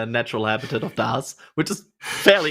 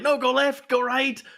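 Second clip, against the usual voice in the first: mock backseat gamers; 13 semitones higher than usual. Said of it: "Everybody's like".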